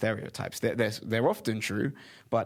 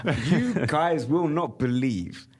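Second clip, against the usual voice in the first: laughing; 5 semitones higher, 5 dB louder than usual. Real, not acted. Laughing at friend's young looks.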